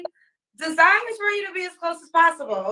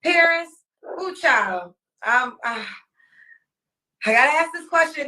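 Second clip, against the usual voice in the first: ordinary delivery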